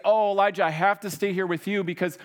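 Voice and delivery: a healed man begging the prophet to let him stay, mock whiny; mock pleading. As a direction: ham up a clingy convert. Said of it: "He doesn't say".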